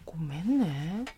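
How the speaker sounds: slow, soft Hokkaido-dialect "ごめんね". Shown as a demonstration. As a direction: say "ごめんね" gently, Hokkaido style. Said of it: "北海道弁だとさ".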